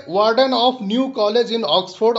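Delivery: unhurried dictation pace; slow careful reading. Shown as a demonstration. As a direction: read "Warden of New College in Oxford" very slowly. Teacher reads English slowly.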